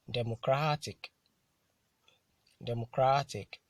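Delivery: "democratic" with CRA hit harder; careful model reading of "democratic", stressed on CRA; penultimate stress. Shown as a demonstration. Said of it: "stressed on the penultimate syllable".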